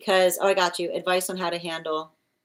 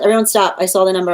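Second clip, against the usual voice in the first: much louder commanding call; firm call to stop; 9 dB louder, faster than usual. Real, not acted. Host telling chat to stop posting, loud command. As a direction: halt the crowd at once.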